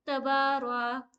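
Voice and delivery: slow, बा in तबारा drawn out; stretched बा. Shown as a demonstration. Teacher demonstrating long बा. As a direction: say तबारा slowly, hold बा. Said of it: "तबा को खींचेंगे".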